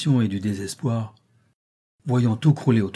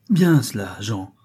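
a hearty, admiring call; approving exclamation; slower than usual. Acted. Don Blas praises Jean's generosity with an eager exclamation. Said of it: "s'écrie Don Blas".

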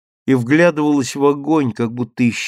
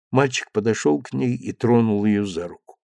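plain reading voice

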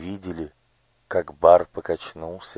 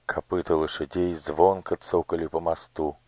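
plain reading voice

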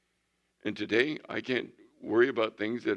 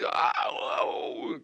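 imitated startle. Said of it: "she was scared to death".

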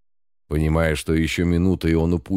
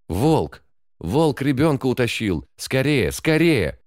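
shrill panicked alarm call, rising higher; alarmed shout; 7 semitones higher than usual. A narrator's reading. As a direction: yell for help as the wolf flees. Neighbour raises alarm.

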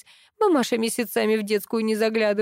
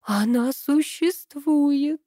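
horrified; 6 semitones higher, much slower than usual. A narrator's reading. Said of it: "в ужасе произнесла Аллочка".

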